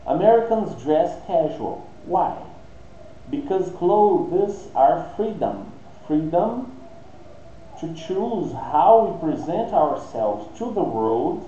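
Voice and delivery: slow, deliberate English read-aloud; measured, spaced-out teacher reading. Shown as a demonstration. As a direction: read it out slowly for language learners.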